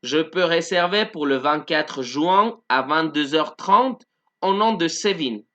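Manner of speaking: slow, even repetition of the French sentence; slow model sentence. Shown as a demonstration. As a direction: read it slowly again for the class. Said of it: "yo puedo reservar".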